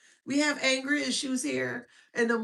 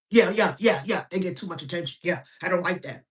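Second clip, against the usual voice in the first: mocking the hater; 6 semitones lower, 3 dB louder, faster than usual. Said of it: "And this is how they sound".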